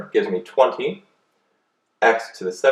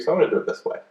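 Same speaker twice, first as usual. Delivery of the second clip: voice cracking; 6 semitones higher, faster than usual. Real, not acted. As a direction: voice cracks up high. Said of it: "my voice just cracked".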